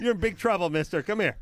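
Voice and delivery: stern high scolding call. Acted. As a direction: tell him off loudly. Scolding voice acted out.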